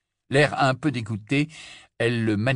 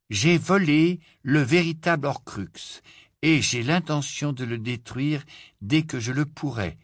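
higher, measured read-out of a note; reading aloud; 6 semitones higher than usual. A narrator's reading. Harry reading R A B's message aloud. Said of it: "lut Harry à haute voix".

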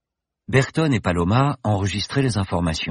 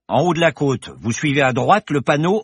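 bar regular's voice; 8 semitones higher, 5 dB louder than usual. Acted. Bar regular gives directions.

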